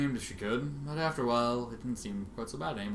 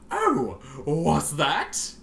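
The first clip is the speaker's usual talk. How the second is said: very slow, higher, drawn-out mock question; mocking taunt; 4 semitones higher, 6 dB louder, much slower than usual. Twilight taunting the paralysed Rainbow Dash, mocking. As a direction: toy with her cruelly.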